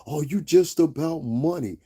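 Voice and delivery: lightly mocked complaining viewer; mock accuser. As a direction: imitate a critic calling you out. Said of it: "niggas will be like".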